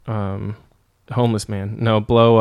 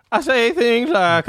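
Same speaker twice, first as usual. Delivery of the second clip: put-on wise old sage; 11 semitones higher, slower than usual. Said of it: "that's my sage voice".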